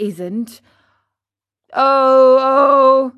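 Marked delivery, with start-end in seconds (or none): 1.7-3.1 wailing loud cries of hunger; a starving puppet bursts into loud cries; crying out. A narrator's reading. Starving puppet to his father, a loud wailing cry. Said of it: "began to scream and cry".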